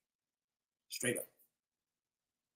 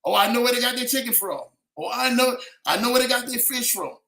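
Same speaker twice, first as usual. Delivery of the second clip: health inspector; 4 semitones higher than usual. Retold or imitated. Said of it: "like an inspector or something like that for the health department".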